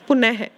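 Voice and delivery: पुनः with an audible h after the n; visarga as h. Shown as a demonstration. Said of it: "उच्चारण करते समय ह की आवाज़ आती है". (पुनः में अंत का ह सुनाई दे)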